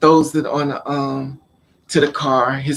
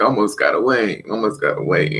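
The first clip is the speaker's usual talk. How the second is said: crying, tearful words forced out, repeated; 5 semitones lower than usual. Retelling being thrown into a car's back seat: imitating own past crying. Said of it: "And I'm in the back seat and I'm crying".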